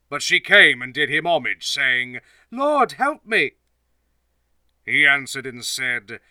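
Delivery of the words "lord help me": high, slow, pleading; begging plea. Acted. Kneeling woman begs Jesus slowly in a high plea. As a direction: draw out a desperate plea.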